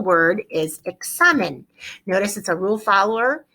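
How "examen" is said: examen said as ek-SA-men; stress on SA. Shown as a demonstration. Teacher gives the original singular word, stress on SA. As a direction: lean on the middle syllable of examen. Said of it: "keep the word sounding just like examen".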